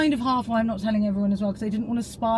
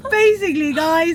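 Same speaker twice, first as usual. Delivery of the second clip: mock vlogger intro; 4 semitones higher, 5 dB louder than usual.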